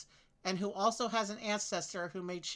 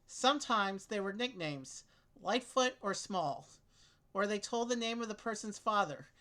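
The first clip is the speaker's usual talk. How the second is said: reading aloud; 2 semitones higher than usual. Acted. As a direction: clear read-aloud voice. Reads clue text aloud.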